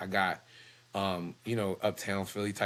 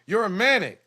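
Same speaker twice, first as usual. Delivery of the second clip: mock doctor; 13 semitones higher, 9 dB louder than usual. Mocking the doctor's diagnosis.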